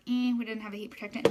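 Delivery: mock disappointed. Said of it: "which I was kinda like".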